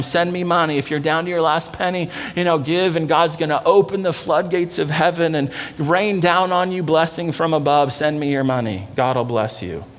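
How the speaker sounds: a hint of a slick TV preacher's money pitch; mocking TV preacher. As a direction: lightly parody a televangelist begging for cash. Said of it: "Doesn't that sound like the T V preacher?".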